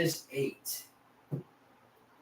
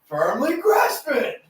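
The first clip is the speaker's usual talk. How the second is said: slow meme echo; 12 semitones higher, 5 dB louder, much slower than usual. Pretend. Echoing the meme line.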